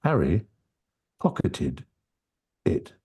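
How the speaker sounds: each word set apart by a pause; Harry, pause, pocketed, pause, it; words separated. Shown as a demonstration. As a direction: say it slowly, one word at a time. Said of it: "if I separate them very easily".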